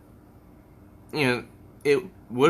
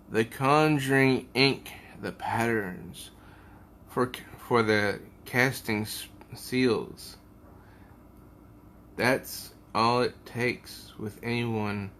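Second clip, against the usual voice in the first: magician. Acted. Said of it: "magician says".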